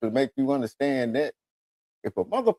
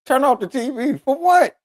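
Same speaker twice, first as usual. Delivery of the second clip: put-on high, louder whiny kid protest; a child protesting to his mother, pitched way up; kid's protest; 12 semitones higher, 4 dB louder than usual. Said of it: "my mama like".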